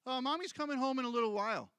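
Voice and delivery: put-on quick, bright reassurance to a child; father reassuring his son, quick and cheerful; reassuring parent. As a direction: soothe the boy briskly. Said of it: "and I say".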